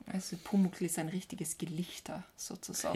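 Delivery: sudden conspiratorial whisper. Acted. Co-host whispers a joke about Pumuckl, whispering. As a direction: drop to a breathy aside.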